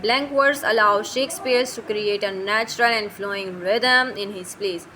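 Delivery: slow, deliberate dictation of English notes; reading notes aloud. Shown as a demonstration. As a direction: read each word out slowly for the class. Reads English notes slowly.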